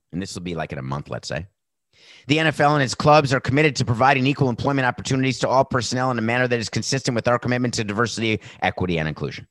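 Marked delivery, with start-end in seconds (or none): 2.3-9.5 loud, fast official announcement read; corporate statement voice. Retold or imitated. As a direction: read it like a stiff league press release. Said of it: "which will say".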